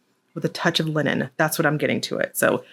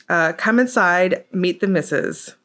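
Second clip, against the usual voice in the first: first try at a mock British accent, slowed; tentative British Cockney-style greeting. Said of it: "Did I do my U K accent right?".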